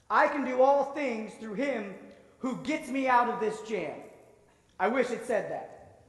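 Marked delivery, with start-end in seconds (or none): 0.1-4.0 wishful rewrite. Pretend. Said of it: "what I wish this verse said was something like this".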